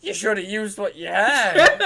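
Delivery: high, loud exasperated telling-off; mock scolding.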